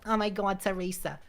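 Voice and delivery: lightly voiced mom calling a name; a hint of his mother calling out, name trailing soft; imitating mom. Son mimicking his mom calling Teresa, lightly voiced. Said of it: "That's literally how she sounds".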